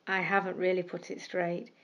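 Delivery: thinking aloud. Acted. Thought to himself.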